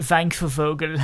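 a light mock German accent, W said as V. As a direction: ham it up like a German saying "Wank for Vogel". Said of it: "put it in my best German accent".

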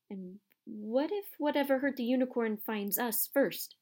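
anxious question, lifting in pitch; fearful. Acted. Boy asks about whatever hurt the unicorn, fearful. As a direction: let the fear leak out. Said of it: "unable to keep the fear out of his voice".

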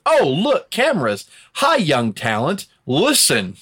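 mock a phony do-gooder posing for cameras; smug politician JBL. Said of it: "it's because".

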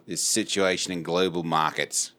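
put-on slow Australian business-news accent; measured Australian accent. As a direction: imitate an Australian markets commentator. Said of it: "there are Australians on Bloomberg".

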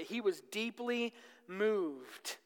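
soft, slow and hushed; deeply moved. Shown as a demonstration. Preacher lingers on Jesus' emotion.

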